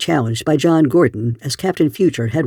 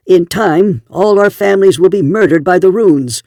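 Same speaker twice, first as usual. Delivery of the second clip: retorted; 5 semitones higher, 5 dB louder than usual. A narrator's reading. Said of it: "Jed Harmer retorted".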